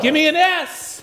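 high, slow, sinking cheer chant; gloomy cheer call. Pretend. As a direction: lead a hopeless cheer, high and drawn out. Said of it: "pessimistic cheerleaders".

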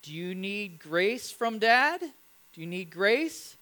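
put-on slow, tender question to a little girl; gentle dad question. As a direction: coax her gently, like a dad offering mercy. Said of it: "And, and I said".

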